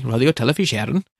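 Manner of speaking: a hammed-up stage Irish lilt on Radio Telefís Éireann, a touch quick; terrible Irish accent. Shown as a demonstration. Podcaster naming Ireland's broadcaster, in an exaggerated Irish accent. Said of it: "said that with such a terrible diddly-eye accent".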